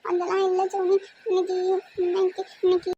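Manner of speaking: halting, tearful stammer; acted crying. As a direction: struggle to get it out while crying. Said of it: "என்ன சொல்லுடி அழுகாம?". (அழுகையில் திக்கித் திக்கி)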